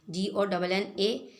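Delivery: letters of gonna spelled out slowly; slow spelling. Shown as a demonstration. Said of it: "किस तरह लिखते हैं".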